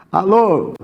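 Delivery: high, grumpy phone hello; acted sullen morning "alô"; sulky. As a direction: answer like someone who slept very badly. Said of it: "Emburrado de alguém que dormiu uma noite muito ruim".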